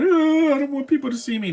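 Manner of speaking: mocking streamers who won't show their face; mock shy person. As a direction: parody someone hiding from the camera. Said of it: "See, I don't do that".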